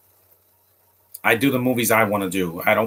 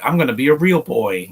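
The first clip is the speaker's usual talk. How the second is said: Pinocchio; 3 semitones higher, 4 dB louder than usual. Retold or imitated. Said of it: "'cause like a Pinocchio".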